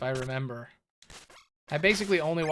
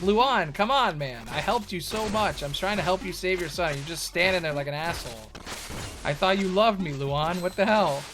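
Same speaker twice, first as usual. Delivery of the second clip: whiny pleading hero; 3 semitones higher, 4 dB louder than usual. Retold or imitated. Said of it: "It's like".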